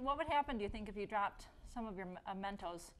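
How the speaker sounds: talking with mouth full; words around a mint. Real, not acted. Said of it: "You're talking with your mouth full like I am".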